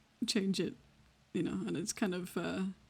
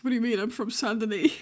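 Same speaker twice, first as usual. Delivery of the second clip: mock protest; 3 semitones higher, 6 dB louder than usual. Acting out Eli's indignant reply.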